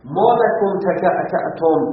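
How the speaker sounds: slow, deliberate ما لکم تکعکعتم with each syllable drawn out; slow Arabic recitation. Shown as a demonstration. Teacher quoting the grammarian's odd Arabic phrase, slowly.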